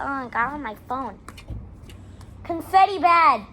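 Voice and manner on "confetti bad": caveman voice. Pretend. Caveman joke voice.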